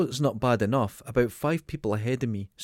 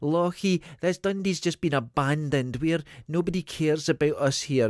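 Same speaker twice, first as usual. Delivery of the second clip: put-on old Lochee voice; 3 semitones higher than usual. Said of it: "a real old Lochie sort of voice".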